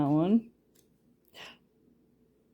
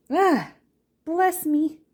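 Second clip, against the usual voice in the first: laughing; 13 semitones higher, slower than usual. Real, not acted. After a sneeze, laughing.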